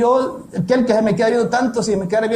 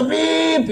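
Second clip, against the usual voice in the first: horn beep; 6 semitones higher than usual. Retold or imitated. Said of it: "ella le pitó".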